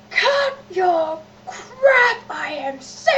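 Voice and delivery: high, drawn-out fed-up yell; mother's yell. Retold or imitated. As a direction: snap like a mother at the end of her rope.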